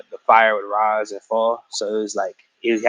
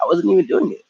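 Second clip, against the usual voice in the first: high mock protest; 8 semitones higher than usual. Aang protesting to Katara.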